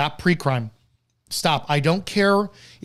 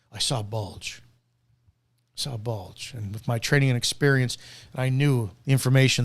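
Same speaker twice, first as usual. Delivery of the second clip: low, hushed imitation of an officer's report; mock police officer; 4 semitones lower than usual. Mimics officer justifying a stop.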